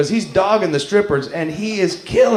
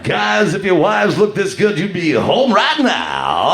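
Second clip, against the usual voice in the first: strip club DJ line. Retold or imitated. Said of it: "This was my line".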